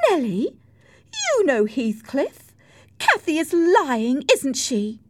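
put-on high-pitched, anxious girlish plea; pleading appeal. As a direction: beg Nelly to take your side. Isabella appeals to Nelly.

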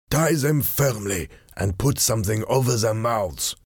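lightly voiced villain giving an order; masked man ordering. Masked man orders his men to tie the captives, controlled command. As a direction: give a controlled command without shouting. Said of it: "he ordered".

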